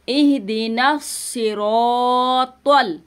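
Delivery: very slow, सिरातल with a heavy emphatic ṭa; heavy ṭal. Shown as a demonstration. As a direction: thicken the ṭa in सिरातल. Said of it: "तल नहीं बोलेंगे". (सिरातल में त को मोटा पढ़ना)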